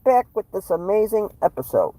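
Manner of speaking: presidential impression, announcing a break; lightly hammed-up politician voice; host the show as a mock president; Donald Trump. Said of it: "I can't do a good Trump impression".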